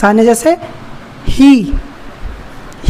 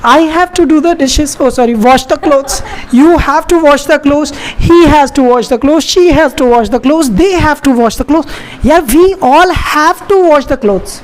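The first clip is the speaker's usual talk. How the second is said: slow, deliberate drill reading, each pronoun stressed; slower than usual. Shown as a demonstration. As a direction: spell out each sentence slowly for learners. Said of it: "मुझे कपड़े धोने पड़ते हैं". (धीमा, साफ़ अभ्यास वाला उच्चारण)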